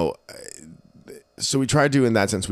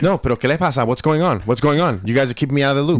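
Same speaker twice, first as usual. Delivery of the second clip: mock worried mom; 4 semitones higher, 3 dB louder, faster than usual. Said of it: "She goes".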